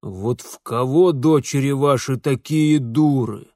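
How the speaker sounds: loud scornful husband; angry sarcasm. Acted. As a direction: heap blame on your wife. Husband insults his wife angrily.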